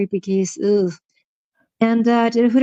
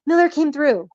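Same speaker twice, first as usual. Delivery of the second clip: excited praise; 3 semitones higher than usual. Real, not acted. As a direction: voice leaping up, delighted exclamations. Cheering on a chat member's remark.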